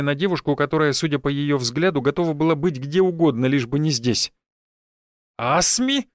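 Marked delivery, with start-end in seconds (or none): 5.4-6.1 high, mock-astonished "Асми?"; feigned surprise. Village head feigning surprise at the girl's name, mock astonishment. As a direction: put on a show of being shocked. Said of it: "наигранно удивился староста".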